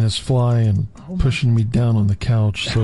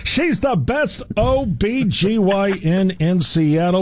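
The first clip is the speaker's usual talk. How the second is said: hammed-up character voice; 6 semitones higher than usual. Comic voiced quote.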